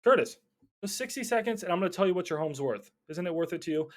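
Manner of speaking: persistent pleading pitch. Retold or imitated. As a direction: keep pressing the caller who wants to hang up. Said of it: "Dude, stop calling me".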